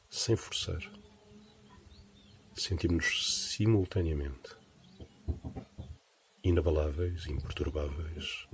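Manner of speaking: measured meditation guidance, spaced-out phrases; guided meditation. Acted. Teacher guiding listeners to rest attention on breathing, guided meditation voice. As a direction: lead them into stillness, pausing between phrases.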